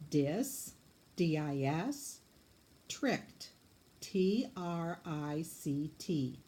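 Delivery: "Dis" then D I S, "trict" then T R I C T, slow letters; scooping syllables. Shown as a demonstration. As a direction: split "District" and spell each syllable. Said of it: "scoop it for me".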